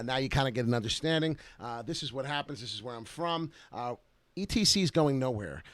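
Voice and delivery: ordinary talk, nothing marked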